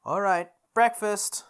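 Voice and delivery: drawn-out eager shout; eager call. Acted. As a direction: announce breakfast like a rallying cry. Narrator rallying himself to cook.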